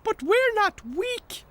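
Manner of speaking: protesting. Acted. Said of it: "protested Tech".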